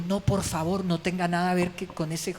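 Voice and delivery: Pilate's wife begging him to stay away from Jesus, pleading high. Retold or imitated. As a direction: beg him not to get involved. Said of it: "La misma esposa le dijo".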